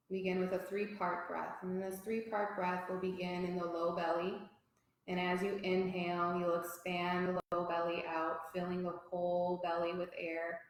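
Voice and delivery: pace each phrase to a long inhale and exhale; guided breathing. Real, not acted. Yoga teacher leading a three-part breath for the class, calm guided breathing.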